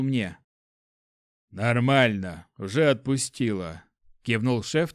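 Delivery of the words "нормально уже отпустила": panting after a coughing fit; out of breath. Acted. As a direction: speak between heavy breaths. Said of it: "тяжело дыша".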